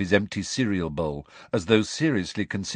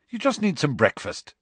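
bracing; 6 semitones higher than usual. Acted. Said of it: "Harry said bracingly".

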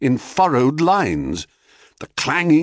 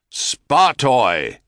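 calling out. Acted. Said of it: "he called out across the plain".

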